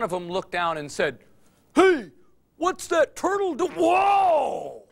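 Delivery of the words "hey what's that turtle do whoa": high, loud surprised cry; a bird jolted by a sudden crash; startled bird shout. Acted. Bird in the tree shouting down in surprise.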